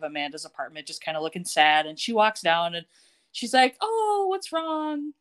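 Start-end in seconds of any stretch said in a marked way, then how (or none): 3.8-5.1 higher, drawn-out sympathetic question; concerned. Retold or imitated. Amanda finds Matt sad on the stairs, acted-out concern. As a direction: imitate someone gently asking what's wrong, slowly.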